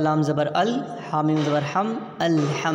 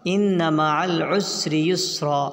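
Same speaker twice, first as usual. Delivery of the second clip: slow recitation with a long final aa; Quran recitation; slower than usual. Shown as a demonstration. Teacher reading the spelled verse whole, slow recitation. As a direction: stretch the syllables slowly as in recitation.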